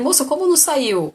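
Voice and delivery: high, loud indignant retort; arguing with the hospital girl, indignant and high; indignant protest. Retold or imitated. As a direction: push back at the nurse.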